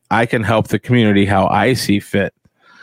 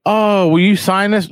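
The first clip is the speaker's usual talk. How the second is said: much higher pleading fan voice; fan asking; 10 semitones higher than usual. Retold or imitated. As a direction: beg for an autograph in a high voice. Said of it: "I'm like".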